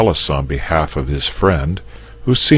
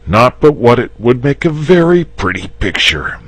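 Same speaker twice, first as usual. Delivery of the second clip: higher, half-tempted; wavering; 10 semitones higher, 6 dB louder than usual. Acted. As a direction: give in a little despite yourself. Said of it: "wavering a little".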